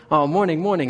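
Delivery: lifted, mock-innocent greeting; playing dumb. Newcomer sneaking past two men, playing dumb. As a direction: act clueless with a breezy sing-song hello. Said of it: "I decide to play kinda stupid".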